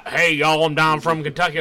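hammed-up Kentucky accent; Southern accent. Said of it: "over-the-top accents and stuff".

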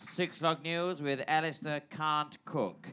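lightly voiced newsreader intro; a hint of the nightly news opener; news anchor. Presenter opening the bulletin, mild newsreader delivery.

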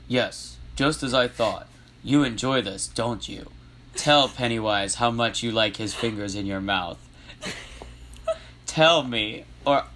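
lightly voiced commanding clown; a hint of a villain's guy voice; deliberate, controlling character dialogue; Pennywise. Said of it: "then I'll do Penny voice".

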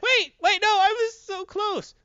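high, whining mock plea; hammed-up desperate protest; Brainiac. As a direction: wail it in squeaky villain defeat, stretching the end. Brainiac pleading in defeat.

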